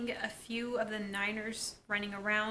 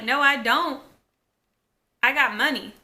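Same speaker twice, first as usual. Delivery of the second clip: loud, raised-pitch retort; mock defiance; 3 semitones higher, 9 dB louder than usual. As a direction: act out arguing back loudly. Acted sisters' quarrel.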